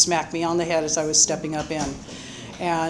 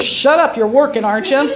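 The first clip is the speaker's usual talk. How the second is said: mock gruff retort; 5 semitones higher, 7 dB louder than usual. Tony West snapping back.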